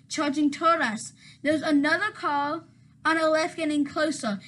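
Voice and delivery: flat robotic report. Acted. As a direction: list it like a robot. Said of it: "you sound like a robot".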